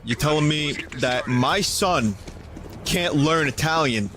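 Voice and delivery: drawn-out Staten Island accent that peaks high on Staten Island. Shown as a demonstration. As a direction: play an incredulous Staten Island dad in a thick accent. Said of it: "Can I do a Staten Island accent?".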